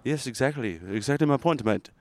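lightly put-on matey accent; mock interrogation in a mogul voice; Elon Musk. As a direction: corner them as a pretend tycoon. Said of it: "So here, I'm Elon".

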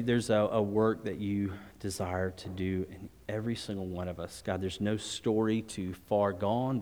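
steady, earnest prayer voice, speaking to God; closing prayer. Real, not acted. Pastor praying over the church in closing prayer, earnest. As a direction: pray it over the room, unhurried.

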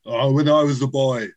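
lightly put-on Austrian accent; Arnold Schwarzenegger impression. Guest explaining how he learned the impression, in an Austrian accent. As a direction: tell it as an Austrian action star. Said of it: "blown by the Arnie impersonation".

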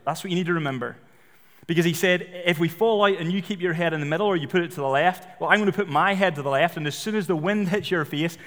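lightly voiced instructor, pressing and quick; urgent instructor. Skydiving instructor warning his student before the jump, mildly urgent. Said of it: "but he said".

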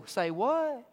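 high, loud disbelieving cry, slowing at the end; mock panicked Israelite facing the army; incredulous Israelite. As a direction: play the shocked doubter staring at the enemy. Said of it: "looked at Moses and said".

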